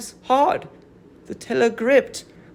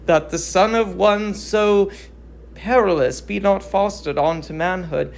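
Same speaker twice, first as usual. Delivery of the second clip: reluctant herald. Acted. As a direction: speak as a herald unwilling to deliver the message. Herald voice again.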